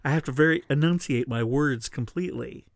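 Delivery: talking with new bottom teeth; slight lisp from new teeth; new dentures. Real, not acted. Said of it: "I feel like I have a lisp or something".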